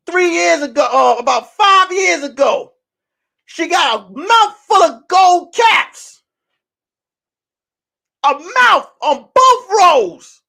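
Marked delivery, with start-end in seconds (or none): 3.4-10.4 shocked. Real, not acted. Shocked high disbelief.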